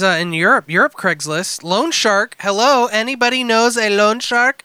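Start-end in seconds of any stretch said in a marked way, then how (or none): 2.4-4.6 put-on wobbly European accent reading; attempted European accent. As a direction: read it in a vague European accent. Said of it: "What accent is that?".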